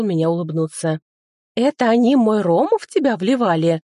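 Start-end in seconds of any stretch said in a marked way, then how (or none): 1.5-3.8 high, loud little fairy squeal; tiny fairy outraged at the stolen rum; fairy shrieking in a whisper. A narrator's reading. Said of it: "взвизгнула она шёпотом".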